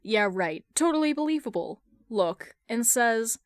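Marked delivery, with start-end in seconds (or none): 0.0-1.8 sarcastic. Acted. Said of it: "Carol gives him a look".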